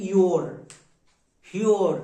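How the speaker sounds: ইওর said as "yo-or", clearly sounded out; pronunciation model of ইওর. Shown as a demonstration. Teacher shows the class how ইওর sounds, clear pronunciation model. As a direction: model ইওর with a "yo" start and a final r. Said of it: "এর উচ্চারণটা হয়ে যাবে".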